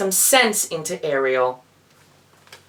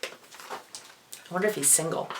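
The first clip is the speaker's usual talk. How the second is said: a whispered joking aside, much softer; 14 dB quieter than usual. Real, not acted. Reader jokes to listeners about the prince, whispered. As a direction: whisper it to yourself, a sly joke.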